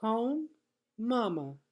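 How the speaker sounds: put-on high, pleading little-girl voice; a small child demanding to go home; insistent toddler. A narrator's reading. Little sister at bedtime insists on going home. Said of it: "insisted Boots".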